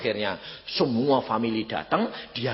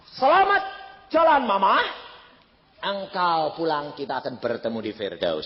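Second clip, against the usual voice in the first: loud, high call to the dead mother; shouted farewell; 6 semitones higher, 6 dB louder than usual. Retold or imitated. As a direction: cry it out across the room. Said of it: "Saya, saya teriak gitu". (teriakan perpisahan keras)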